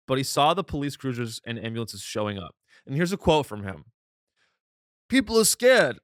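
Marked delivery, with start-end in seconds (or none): 5.1-6.0 off-target attempt at an Arab accent, pitched up; louder, higher botched Arab accent; failed Arab accent. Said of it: "Oh, that's not Arab".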